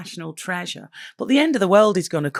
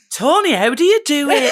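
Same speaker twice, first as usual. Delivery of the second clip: mock adoring fan; 8 semitones higher, 6 dB louder than usual. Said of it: "So they're all like".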